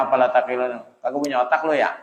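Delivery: cheeky street Betawi taunt; blunt Betawi jab. Shown as a demonstration. Preacher mocks the congregation Betawi-style, cheeky. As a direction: throw it like a mocking local insult. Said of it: "lebih mantep mana tuh".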